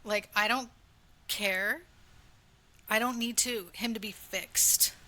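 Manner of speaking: halting, a touch choked up; getting emotional. Real, not acted. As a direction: hold back emotion between pauses. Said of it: "I'm gonna get emotional".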